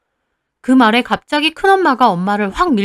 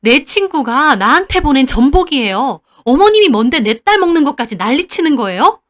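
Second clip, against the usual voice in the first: arguing; 3 semitones higher, 4 dB louder than usual. Acted. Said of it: "할머니한테 따지시더라고요".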